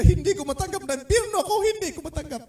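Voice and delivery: high, wailing imitation of the elder; mock sobbing protest, fast at first; crying elder. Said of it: "Iyak siya ng iyak".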